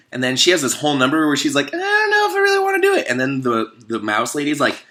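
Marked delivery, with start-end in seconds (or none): 1.7-3.1 very high, fast nervous voice; high girl unsure about marrying; fretting girl. Acted. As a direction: rush it out anxiously.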